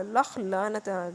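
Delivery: drawn out, heavy, each word dragged; slow damning curse. Real, not acted. Narrator curses the husband who left his wife, dragged out slowly. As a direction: spit out a slow curse of contempt.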